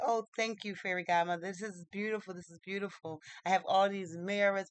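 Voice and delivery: mildly delighted storybook prince voice; happy. Acted. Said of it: "Prince Harweda was happy".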